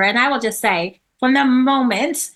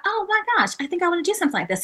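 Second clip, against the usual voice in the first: excited; 9 semitones higher, much faster than usual. Retold or imitated. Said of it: "but I thought".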